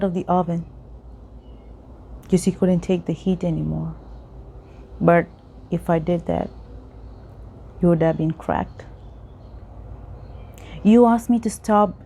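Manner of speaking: measured teacup's tale, phrase by phrase; parable narration. Acted. Continues parable, master answers teacup.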